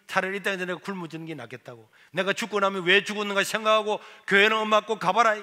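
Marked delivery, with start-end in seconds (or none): 2.1-5.4 repeated vow. Retold or imitated. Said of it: "교회나 가봐라".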